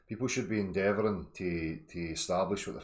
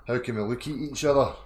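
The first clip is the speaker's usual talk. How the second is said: impassioned plea; 4 semitones higher, 5 dB louder than usual. Real, not acted.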